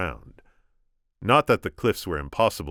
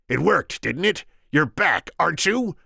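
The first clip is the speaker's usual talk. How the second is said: higher, louder smug taunt; gloating; 12 semitones higher, 7 dB louder than usual. Acted. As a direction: rub it in her face. Sicilian gloating.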